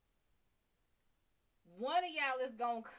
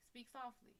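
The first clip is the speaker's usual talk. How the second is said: softer, dropped voice; soft speech; 2 semitones higher, 10 dB quieter than usual. Shown as a demonstration. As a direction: show how to speak softly. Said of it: "If you speak softly".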